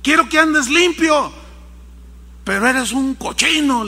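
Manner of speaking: put-on boy venting frustration at his piglet; exasperated lecture. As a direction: scold the pig like a fed-up parent. José lectures the pig.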